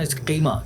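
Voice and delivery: इसका कीमा with the k said the way some people say it; the wrong pronunciation. Shown as a demonstration. Host imitates how some people say कीमा. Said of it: "कुछ लोग कीमा बोलते हैं".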